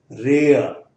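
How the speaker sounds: रेयर slowly, e sliding into a short a; diphthong demo. Shown as a demonstration. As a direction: stretch रेयर with an e-a glide. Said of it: "ए ए जिसे कहना चाहिए".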